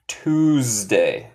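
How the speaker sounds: Tuesday slowly, as "tooz-day"; slow model pronunciation. Shown as a demonstration. Teacher reviews how martes is said, slow model pronunciation. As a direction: stretch the first syllable of "Tuesday". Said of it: "se dice".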